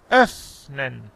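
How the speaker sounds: "öffnen" split by a long airy f. Shown as a demonstration. Teacher models it for the student, long-f "öffnen". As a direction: hold the f in "öffnen" before the nen. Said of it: "un poco más f".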